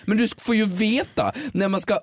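a light take on a friend's dialect; imitating Keyyo. Doing her cohost's voice to mock her. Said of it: "Det var en ganska bra Keyyo-imitation".

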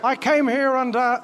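Chris Eubank. Acted. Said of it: "Chris Eubank".

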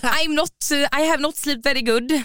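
halting English. Retold or imitated. Retelling the morning after, halting English. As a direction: imitate an awkward morning-after reply.

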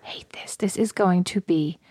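whispered, slowing at the end; hushed grumbling dread; muttered dread. Retold or imitated. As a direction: grumble it under the breath, dragging so stupid. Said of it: "I was like".

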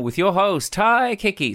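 hammed-up high announcer voice; wacky voice. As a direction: announce yourself like a cheesy game show. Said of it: "doing the, um, the kind of wacky voice thing".

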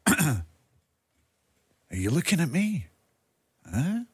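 a light mock De Niro menace into the mirror; Robert De Niro impression. The speaker's De Niro impression, mock menacing mirror line. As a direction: play the tough guy sizing someone up. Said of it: "my Robert De Niro kind of Taxi Driver impersonation".

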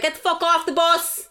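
high, fast comic tirade; retold angry order. Retold order to teenagers on bus.

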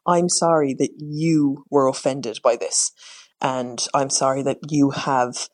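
slow, mock-sincere non-apology; fake apology. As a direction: drag it out, falsely sorry. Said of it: "It's like".

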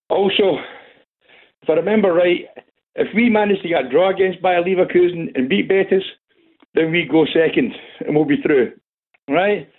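breathless from running; out of breath, talking between breaths. Real, not acted. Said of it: "sorry, I'm out of breath".

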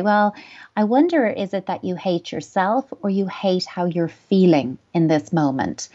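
curious, light-hearted wondering; playful tone. Shown as a demonstration. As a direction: lift it up playfully, gentle but firm. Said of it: "in a playful way, tone is everything".

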